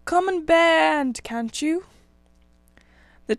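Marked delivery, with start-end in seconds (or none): 0.0-1.9 loud, high and slow, calling for help; exasperated shout at a useless friend; impatient call. A narrator's reading. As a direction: haul him over with your voice. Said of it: "they cried".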